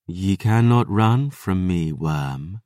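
cold, mocking predator; menacing vampire voice. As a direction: taunt your prey. Vampire Lily threatens.

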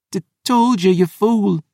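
high, stammered words of pain; groaning. Acted. Poisoned Phoebe scolds her friend, groaning in pain. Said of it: "she groaned".

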